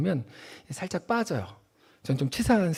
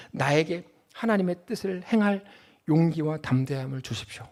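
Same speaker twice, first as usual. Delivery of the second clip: soft, earnest prayer voice, quieter; a quiet model prayer; 2 semitones lower, 5 dB quieter than usual. Shown as a demonstration. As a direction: pray it humbly to God. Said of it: "근데 이렇게 기도해야 돼요".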